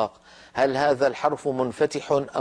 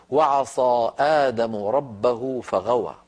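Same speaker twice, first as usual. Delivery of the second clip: slow, lower recited verse; Quran recitation; 3 semitones lower, slower than usual. Acted. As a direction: draw out each word like tilawa. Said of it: "قال تعالى". (تلاوة بطيئة للآية)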